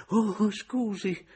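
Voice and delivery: put-on high, slow startled old man; a caught-off-guard old landlord apologising; high, drawn-out old man's oh; old man's exclamation. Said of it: "esclamò".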